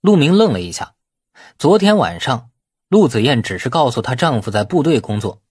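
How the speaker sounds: usual speaking voice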